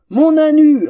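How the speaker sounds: very high, loud squeal; fangirl scream. Acted. Twin screams for her favourite duelist, ecstatic. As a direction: shriek it with adoration.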